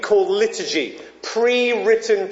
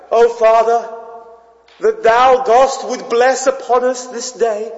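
mock grand church prayer voice; posher prayer voice; 3 semitones higher, 3 dB louder than usual. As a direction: intone it like an old-fashioned pompous prayer. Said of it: "this posher voice".

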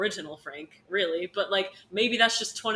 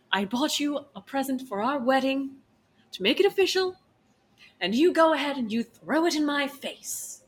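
raised pitch, hammed-up hurt spouse; wounded indignation; 5 semitones higher, 3 dB louder than usual. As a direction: build a mock-aggrieved complaint. Acted quarrel over a wedding present.

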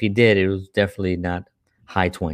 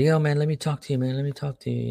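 higher, pleading; addict friend; 6 semitones higher, faster than usual. Retold or imitated. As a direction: pull your friend aside, urgent. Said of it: "he was like".

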